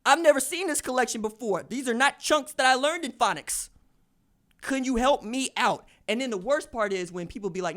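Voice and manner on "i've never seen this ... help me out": loud, high-pitched plea of bafflement; exasperated retold appeal; mock protest. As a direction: protest as if stumped by the spelling. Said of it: "and you say".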